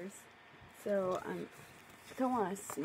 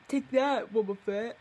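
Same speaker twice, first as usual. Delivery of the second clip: a hammed-up attack shout, louder; louder cartoonish attack call; mock battle cry; 6 dB louder than usual. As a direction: yell it like a cartoon hero kicking. Mock battle cry from her story.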